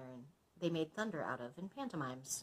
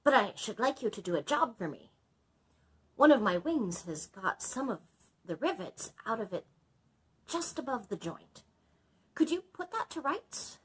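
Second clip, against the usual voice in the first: higher, louder dragon voice; 6 semitones higher, 6 dB louder than usual. Acted. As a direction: speak up as the dragon.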